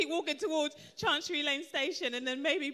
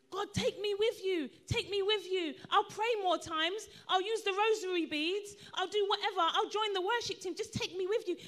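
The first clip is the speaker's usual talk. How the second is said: pleading bargain; 3 semitones higher than usual. Acted. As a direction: mock-desperate bargaining prayer. Acts out bargaining with God.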